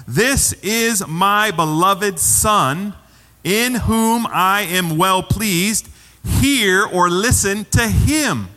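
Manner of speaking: very slow, solemn divine pronouncement; voice from the cloud. Acted. God's voice from the cloud to the disciples, slow and solemn. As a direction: proclaim it slowly, word by weighty word. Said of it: "a voice came out of the cloud".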